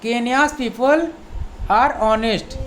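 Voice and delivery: very slow, careful teacher reading; slow model sentence. Shown as a demonstration. Teacher reads the example sentence slowly to students. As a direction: spell it out word by word. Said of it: "तो you know".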